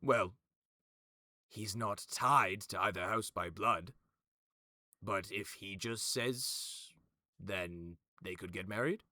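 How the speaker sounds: lightly voiced character arguing a loophole; persistent objector. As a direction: reason it out, probing hopefully. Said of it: "you watch as he goes".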